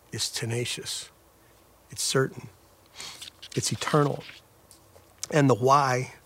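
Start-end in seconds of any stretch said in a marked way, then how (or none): 1.9-4.2 soft whisper of certainty; gentle hushed vow; whispered assurance. Real, not acted. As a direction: breathe the promise to the listener. Closing assurance of Father's grip.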